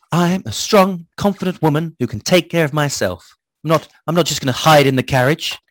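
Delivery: mildly patronizing mock self-assertion. Irina disregards Ichabod's orders to stay in the carriage, patronizing. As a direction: put on a slightly condescending, self-important declaration. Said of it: "making that sound patronizing".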